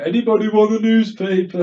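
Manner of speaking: a hint of a woman passenger, pitched high; imitating woman. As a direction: lightly voice her calling out to the carriage. Retelling woman offering newspaper.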